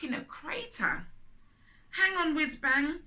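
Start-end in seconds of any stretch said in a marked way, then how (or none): 1.9-3.0 high, loud call. A narrator's reading. Rocket calling to her stuck friend, loud and urgent. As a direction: call across to reassure him. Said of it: "she called".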